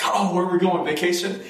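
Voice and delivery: lightly acted eager questioning; excited child. Young boy asking his mom about a trip, mildly excited. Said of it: "that's when we got excited".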